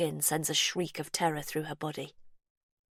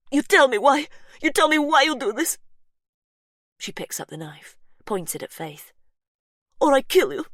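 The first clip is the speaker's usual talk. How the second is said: put-on loud, high furious yell in a Polish accent; angry yell, strong accent; 9 semitones higher, 9 dB louder than usual. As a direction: accuse her, shouting in a Polish accent. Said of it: "Her accent is strong".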